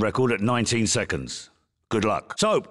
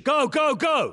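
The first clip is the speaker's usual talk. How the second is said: shouted go; 12 semitones higher than usual. Acted. Start of timed run.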